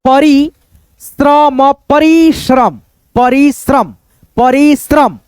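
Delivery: परिश्रम slowly, first in pieces, then joined; परिश्रम with a long री, then falling श्रम; syllable-by-syllable reading. Shown as a demonstration. Teacher showing the word on screen, परिश्रम read out slowly. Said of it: "फिर यहाँ पे देखो".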